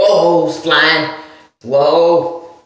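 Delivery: drawn-out, surprised outcry; startled exclamation. Real, not acted. Vlogger sees hair product flying everywhere, startled. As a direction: exclaim as it gets away from you.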